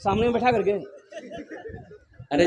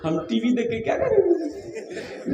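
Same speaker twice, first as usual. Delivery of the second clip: sweet-talking husband; 5 semitones lower, 7 dB quieter than usual. Retold or imitated. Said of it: "उसका शौहर बोला".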